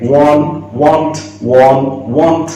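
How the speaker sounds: ওয়ান and want alternated, both opening on a "w"; ওয়ান then want, word by word, sharing the opening "w"; matching sounds demo. Shown as a demonstration. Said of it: "কারণ দুটো উচ্চারণ same".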